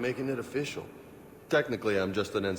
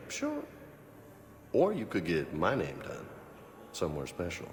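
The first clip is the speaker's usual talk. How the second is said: teasing; 4 dB quieter than usual. Acted. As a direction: tease her, sly and suggestive. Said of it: "You're such a tease".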